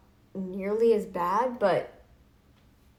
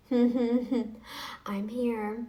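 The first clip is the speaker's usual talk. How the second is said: chuckling, teasing I'm here; smug laughing dare; laughing taunt. Real, not acted.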